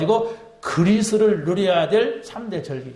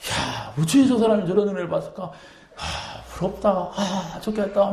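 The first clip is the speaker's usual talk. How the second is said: admiring sigh. Retold or imitated. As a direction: sigh over their blessing. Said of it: "막 이래야 정상이에요". (부러운 듯 부드럽게 감탄하며)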